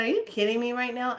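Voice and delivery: high, fast, acted-out disbelief; incredulous protest. Retelling her comeback to the key guy, incredulous. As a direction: fire it back high and quick.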